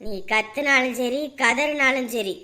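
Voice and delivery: low slow threatening voice; menacing taunt. Acted. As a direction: gloat over the trapped man. Ghost taunting trapped victim. (தாழ்ந்த மிரட்டும் குரல்)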